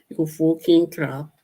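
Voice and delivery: high mock-British insult; British accent. Streamer insulting chat in a put-on British accent. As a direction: fling a high jokey British curse. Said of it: "I like doing those accents".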